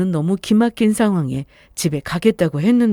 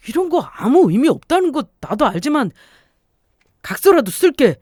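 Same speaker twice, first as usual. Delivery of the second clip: husband pleading; 6 semitones higher than usual. Acted. Husband to wife, offering a written pledge, pleading and higher. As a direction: beg her to believe you.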